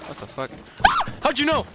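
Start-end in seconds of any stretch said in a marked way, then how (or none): 1.2-1.7 squeaky high-pitched teasing; high mock squeal. Teasing friends in a squeaky high voice. Mocking repeated question, gaming banter.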